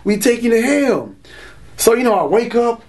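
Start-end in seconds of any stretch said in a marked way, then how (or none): 0.1-1.1 higher, slowed menacing voices; demon voices. Retold or imitated. Demons at night threatening to drag him to hell, menacing. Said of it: "crazy voices that be like".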